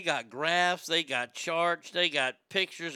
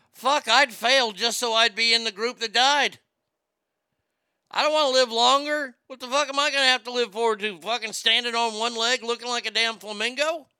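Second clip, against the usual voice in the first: indignant rant; 4 semitones higher than usual. Real, not acted. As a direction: scoff at the idea of living longer. Indignant rant about living longer.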